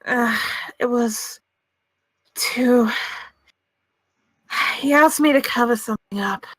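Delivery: halting, reluctant admission; under pressure. Acted. Pressured witness admitting a cover-up to the court, hesitant. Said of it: "starting to feel loads of pressure".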